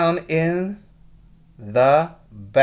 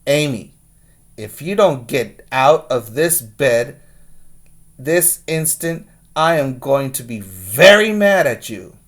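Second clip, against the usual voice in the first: stern father voice; 4 dB louder than usual. Acted. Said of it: "in his sternest father voice".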